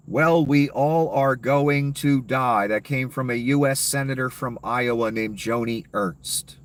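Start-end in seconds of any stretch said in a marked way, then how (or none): 0.1-2.7 slow, dismissive mock of the senator's shrug. Mocking the senator's cold answer, slow and dismissive. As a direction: draw it out like you couldn't care less. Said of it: "So she responded to that".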